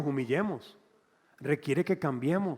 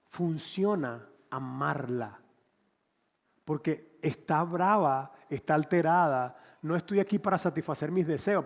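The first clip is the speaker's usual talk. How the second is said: calm resolve. Retold or imitated. Retold inner resolve.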